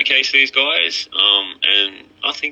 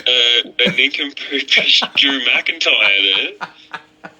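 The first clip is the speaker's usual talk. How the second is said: laughing disbelief; 6 semitones higher than usual. Real, not acted. Laughing at co-host's accent.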